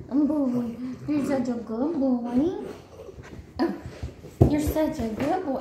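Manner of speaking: high, sweet praise for a pet; talking to a dog. Real, not acted.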